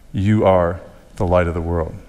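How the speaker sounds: "You" set forward, then a break; stress on YOU. Shown as a demonstration. Preacher quoting verse fourteen, stress on "You". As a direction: lean on "You are" before the rest. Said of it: "It's there for emphasis".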